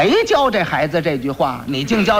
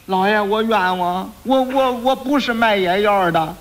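slow halting frightened denial; stammering denial; 4 semitones higher, slower than usual. Acted. Quack doctor nervously denying before the magistrate, slow stammering. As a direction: stumble through the lie.

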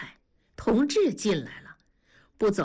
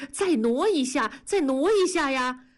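raised, higher bossy call; 6 semitones higher than usual. A narrator's reading. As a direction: hurry the movers along, voice up. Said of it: "文丽就嚷".

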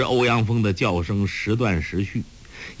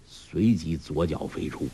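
ordinary delivery

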